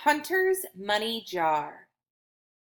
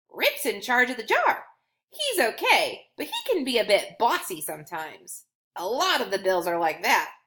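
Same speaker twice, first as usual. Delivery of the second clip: cheerful coin Scratch. Acted. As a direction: play a friendly coin telling secrets. Coin voiced in children's story.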